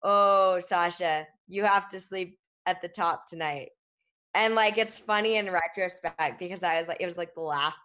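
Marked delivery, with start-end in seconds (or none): 0.0-3.7 light imitation of a thick German accent; a hint of a German alpinist's accent. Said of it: "in his thick German accent".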